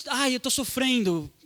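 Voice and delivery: slow, drawn-out mock lament; mock suffering. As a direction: act out someone moaning about their pain.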